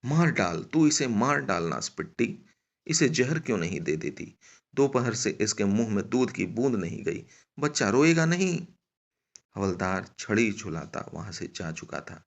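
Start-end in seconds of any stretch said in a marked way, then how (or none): 0.0-8.7 raised, angry reproach rising at the end; high, acted outburst of blame; yelling. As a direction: scold her loudly, climbing to the last question. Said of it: "फिर चिल्लाने लगी".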